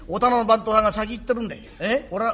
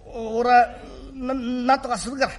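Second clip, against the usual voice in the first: choked up; 2 semitones higher than usual. Acted. Father choking up as he promises his son. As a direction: voice catching on the stammer.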